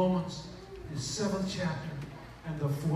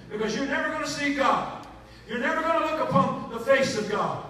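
emphatic preaching; 6 semitones higher, 7 dB louder than usual. Acted. Preacher building to climax.

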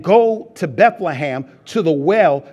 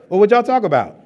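higher and louder, fed up with the non-answers; exasperated wife; 5 semitones higher, 6 dB louder, faster than usual. Retold or imitated. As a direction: push the question like she's had enough. Wife asking again, exasperated.

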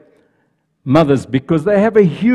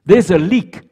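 louder, higher firm pronouncement; pronounced firmly; 4 semitones higher, 4 dB louder than usual. Acted. Angel finding the tear, firm loud pronouncement. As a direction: announce the flaw with certainty. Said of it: "she pronounced".

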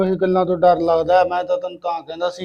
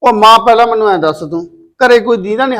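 loud retort; 6 dB louder than usual. Acted. Son retorts to mother.

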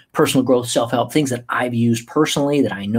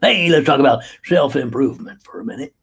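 put-on silly voice. Shown as a demonstration. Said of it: "I do it in different voices like this".

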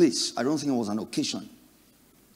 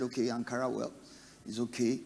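dismissive mutter; 7 dB quieter than usual. Acted. Friend sizing up the Ankara.

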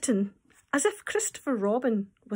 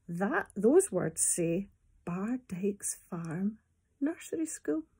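slow whispered reading; slower than usual. Acted. Teacher whispering the sign to children. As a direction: read the sign in a hush.

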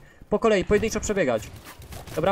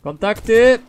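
loud contact warning; combat callout; 3 semitones higher, 8 dB louder, much slower than usual. Real, not acted. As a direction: call the enemy out to squad. Calling out enemy contact. (okrzyk bojowy)

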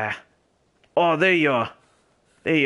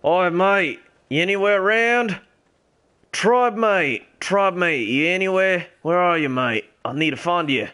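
calling out; 7 semitones higher, 5 dB louder than usual. Real, not acted. Shouting for his lost tribemate.

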